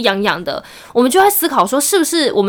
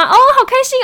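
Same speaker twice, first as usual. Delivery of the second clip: mock glee; 4 dB louder than usual. Sarcastic glee at scam topic.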